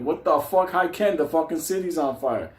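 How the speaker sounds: high, mock-outraged disbelief; incredulous outburst. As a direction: throw the greeting back in disbelief. Acts out disbelief at casual greeting.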